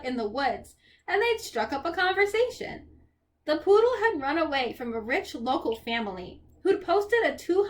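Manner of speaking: expressive, unhurried storybook reading; story narration. A narrator's reading. Percy describes Grover and the poodle, story narration. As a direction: paint the scene line by line.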